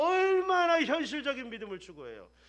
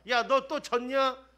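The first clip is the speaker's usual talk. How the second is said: mock scolding; 3 semitones higher, 5 dB louder than usual. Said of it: "꾸짖지 않는다".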